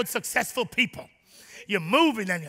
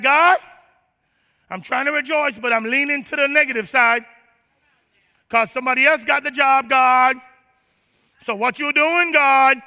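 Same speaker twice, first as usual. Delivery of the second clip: mock whiny complaint to God, louder; complaining believer; 3 semitones higher, 5 dB louder than usual. Believer complaining to God about a job, loud mock whine.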